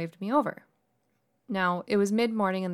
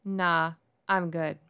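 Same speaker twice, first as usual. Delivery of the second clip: wary, guarded brush-off; suspicious; 2 semitones lower, slower than usual. Retold or imitated. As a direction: turn him down with open suspicion. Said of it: "I say in a clearly suspicious voice".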